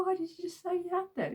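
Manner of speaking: high, quick indignant question; mock baffled. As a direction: demand an explanation, baffled. Confused reply to dad.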